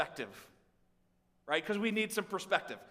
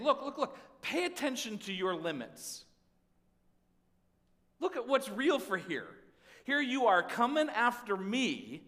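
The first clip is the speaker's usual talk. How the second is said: firm challenging God; 4 semitones higher, 3 dB louder than usual. Acted. Preacher voices God's reply.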